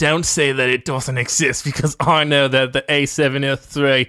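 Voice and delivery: put-on slipping into a cockney accent; hint of cockney. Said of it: "Went a little cockney there".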